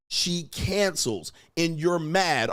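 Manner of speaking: ordinary talk, nothing marked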